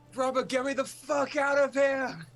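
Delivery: mock shrill, very high, loud shrieking scream. Voicing a cop who wants out of the car: screaming. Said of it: "And they scream".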